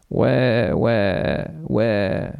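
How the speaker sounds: put-on thin wailing baby cry; newborn crying. A narrator's reading. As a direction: wail it like a newborn. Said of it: "machte eine neue Stimme".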